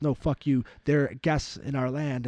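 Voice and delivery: imitated indignant rebuttal; mock angry retort. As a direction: fire back as the rival claimant, lightly heated. Acting the other side firing back.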